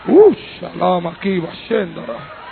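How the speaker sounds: sudden burst of tongues, dropping low; speaking in tongues. Real, not acted. Preacher breaks into tongues before the congregation, ecstatic. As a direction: pray in tongues mid-sermon, fervent then hushed.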